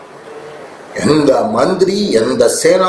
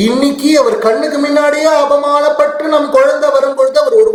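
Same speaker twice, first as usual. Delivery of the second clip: grieving mother; 5 semitones higher than usual. Acted. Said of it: "அவளுக்கு தைரியம் போயிடுத்து".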